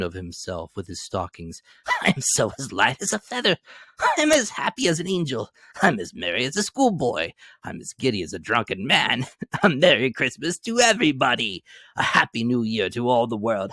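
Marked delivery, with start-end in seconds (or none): 2.0-13.7 higher, louder, bubbling delight; giddy as a schoolboy; merry laughing voice; giddy joy. A narrator's reading. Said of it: "laughing and crying in the same breath".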